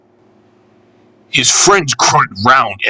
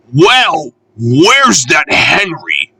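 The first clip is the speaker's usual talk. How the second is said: calling out; 5 semitones higher, slower than usual. Acted. Peter Sam calling out.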